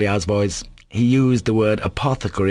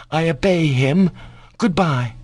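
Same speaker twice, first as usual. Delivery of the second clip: proud; 8 semitones higher than usual. A narrator's reading. Boy leaves proudly.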